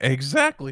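voice cracking mid-word on "exactly". Agreeing with the other speaker, voice cracking. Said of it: "I don't know why my voice cracked".

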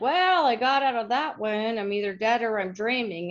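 ordinary delivery

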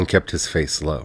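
plain

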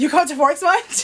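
playfully sarcastic. Delivering a line the way a partner asked: playfully sarcastic. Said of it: "Do you come up to Forks much as artfully, playfully sarcastic?".

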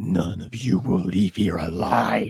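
voice dropped way down. Quoting a favourite cartoon villain's line: Shredder voice. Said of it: "I love the way he sounds. He's like".

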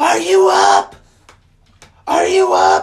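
very slow, very loud, drawn-out holler. Retelling a parent waking them each morning: imitating mom screaming. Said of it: "she would just scream down to the basement".

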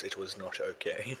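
very quiet, hushed narrator voice. After missing the deadline by hours, the speaker comments in a narrator voice. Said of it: "Narrator voice".

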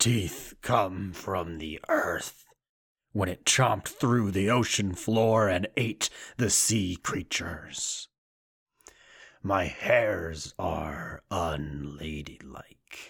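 demonic character voice. Speaker launching into an announced impression: Krampus impersonation. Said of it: "do my best Krampus impersonation".

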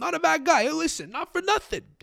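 very high-pitched, put-on New Jersey accent. Voicing a hypothetical person's reply, New Jersey accent. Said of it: "Sounds New Jersey in my mind".

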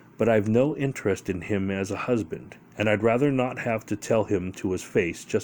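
plain reading voice

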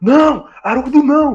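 put-on shouting. Recounting someone running out of a van, imitating his shouting. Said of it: "saiu da van do Haroldo gritando".

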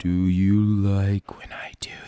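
low, hushed whisper. Showing an ASMR voice up close to the mic: whispering really low. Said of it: "I just whisper really low".

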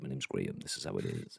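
very low, quiet, fake mysterious bass voice. Introducing himself on the stream, put-on mysterious bass voice. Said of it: "putting it on just so I sound like a little bit more mysterious".

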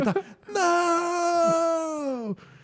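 put-on very high despairing shriek, não stretched out. Describing a guy reacting to a player's shot, imitating a despairing scream. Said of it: "ele começa a gritar em desespero".

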